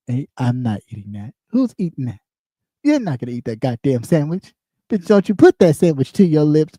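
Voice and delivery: lightly voiced chef cursing her out; a hint of an angry TV chef scolding; mock Gordon Ramsay rant. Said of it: "Gordon Ramsay will be cursing you".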